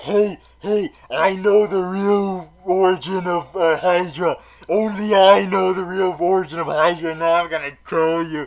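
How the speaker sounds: put-on, mock drunk-sounding voice. Mocking the show as a drunk friend bragging: impression of a drunk person. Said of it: "my impression of drunk people".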